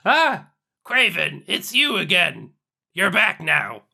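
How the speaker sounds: lightly voiced character greeting, close to normal; faint attempt at a character voice; character voice, barely there. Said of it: "too much like your, your normal voice".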